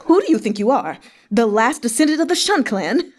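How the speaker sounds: a hint of a villain gloating over his former subordinate; mocking laughter. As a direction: sneer at him between laughs. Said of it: "Han Cheng threw his head back and laughed".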